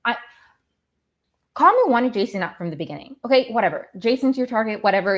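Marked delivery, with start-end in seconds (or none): 1.5-5.2 raised, indignant venting; getting mad. Real, not acted. Fan mad about a player's targeting, indignant. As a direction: vent with real irritation. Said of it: "I'm already getting so mad".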